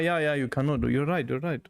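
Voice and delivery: ordinary talk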